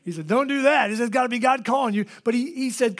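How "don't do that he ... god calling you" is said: firm warning. Retold or imitated. Dad's warning quoted.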